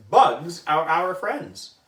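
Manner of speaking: slow, gentle reassurance; slow calm teacher voice. Acted. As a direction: soothe the scared kids slowly. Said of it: "Don't be afraid".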